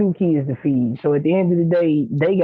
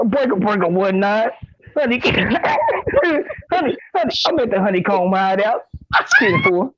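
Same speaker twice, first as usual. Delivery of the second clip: CB radio talk; 4 semitones higher than usual. Pretend. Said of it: "Sound like a C B radio".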